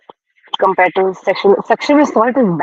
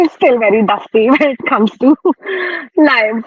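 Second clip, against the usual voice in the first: laughing through the words, a bit higher; 6 semitones higher than usual. Real, not acted. Host laughing at being rusty on a livestream. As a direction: giggle at yourself while saying it. Laughing at her own rustiness live.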